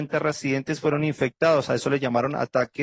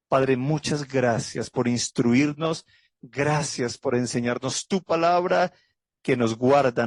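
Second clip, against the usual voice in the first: closing prayer. Real, not acted. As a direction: pray to the Father with gratitude and trust.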